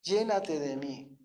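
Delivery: low, soft, slow appeal; hushed, low-pitched plea in God's voice; the Lord's gentle call. Retold or imitated. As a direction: voice God's call quietly and unhurriedly. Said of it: "pero Él me dice".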